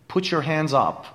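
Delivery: "Put your hands up" with the t and y blended into a light ch, "putchour"; soft ch sound. Shown as a demonstration. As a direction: let the t slide into a soft ch. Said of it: "به جمله دقت کنید". (صدای چ خفیف بین put و your)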